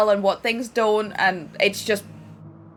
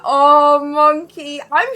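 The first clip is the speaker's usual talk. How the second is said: loud, higher-pitched affectionate "aww"; fond sympathy; 4 semitones higher, 7 dB louder, much slower than usual. Real, not acted. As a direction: console a friend with exaggerated sympathy. Consoling self-deprecating chatter.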